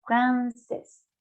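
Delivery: "Francés" as feminine française, fran-sess; "Francés" closing on a clear S; sounded final S. Shown as a demonstration. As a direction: let the final S of "Francés" be heard. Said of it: "¿Por qué la pronuncio?".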